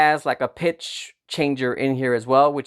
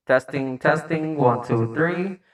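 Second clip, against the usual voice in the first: echo; slower than usual. Shown as a demonstration. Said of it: "echo two".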